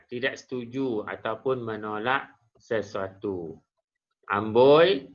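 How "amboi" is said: loud exclaimed amboi of wonder; admiring exclamation. Shown as a demonstration. Teacher demonstrating an exclamation of awe to students, admiring. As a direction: call it out in mild amazement. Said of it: "kagum ataupun berasa hairan".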